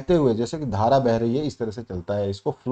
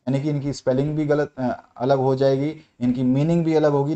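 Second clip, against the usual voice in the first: normal talking voice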